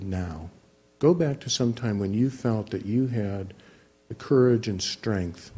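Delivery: guided imagery voice. Retold or imitated. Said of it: "this technique of evocative imagery".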